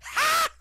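sharp high shouted ha; one big scornful ha; loud mock laugh burst. Father mocking the kid with a shouted laugh. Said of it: "his father just goes".

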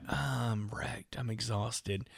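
hushed, whispery worn-out reply; mock exhausted. Friend begging off a show, wrecked and whispering. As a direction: imitate a drained friend, barely voiced.

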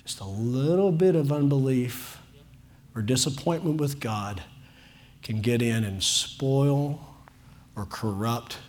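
soft, low, slowing warning; hushed warning. Real, not acted. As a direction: drop to a near whisper.

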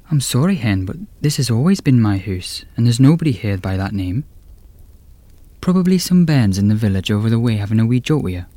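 kindly old Scottish granny, lightly voiced; Scottish old lady.

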